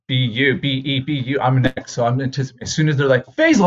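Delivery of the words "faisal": high, loud name call; teacher calling name. Retold or imitated. Teacher takes attendance.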